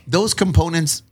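running out of breath; breathless end of long sentence. Real, not acted. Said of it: "I ran out of breath".

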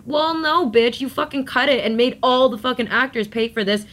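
exasperated clapback; indignant retort. Acted. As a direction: snap back at a glory-taker, pitch jumping up. Imagined angry retort to Brad Pitt.

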